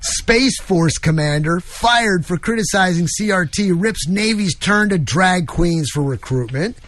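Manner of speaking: slow, measured headline reading. Acted. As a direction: read it out slowly like a headline. Reads headlines aloud.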